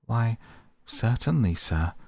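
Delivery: eager to please the Rat; respectful. Acted. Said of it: "replied the field mouse respectfully".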